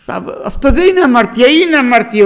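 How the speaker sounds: loud, fast rebuke from the pulpit; forceful preaching. Real, not acted. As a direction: hammer the point home to the flock. Preacher scolding the congregation.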